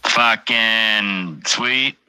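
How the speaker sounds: very slow, sweet rising at the end; drawn-out sweet. Real, not acted. Streamer savoring a moment, very slow with a rising end. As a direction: stretch it out slowly, lift the end.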